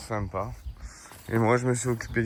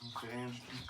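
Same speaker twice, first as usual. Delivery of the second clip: grumpy mutter; 23 dB quieter than usual. Pretend. Grumpy role play continues.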